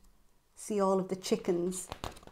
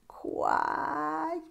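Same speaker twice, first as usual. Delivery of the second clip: high, soft quack; a weary little quack; duck's quack; 8 semitones higher, 4 dB quieter than usual. Acted. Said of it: "The duck answered".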